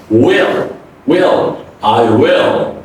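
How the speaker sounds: "will" with short i gliding into dark L; correct will. Shown as a demonstration. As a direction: glide through uh in "will". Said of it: "Don't say".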